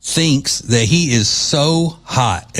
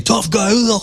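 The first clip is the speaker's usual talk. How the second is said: mock sneer; 9 semitones higher than usual. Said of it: "He says the same thing".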